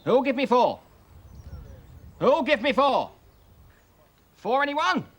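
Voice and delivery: auction bid spotter. Acted. Auctioneer calling bids at auction.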